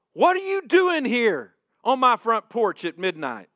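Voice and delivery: acted outburst at an unwelcome caller; barked back. Woken neighbor to caller on his porch, barking back. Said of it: "Bill barks back with the dog barking".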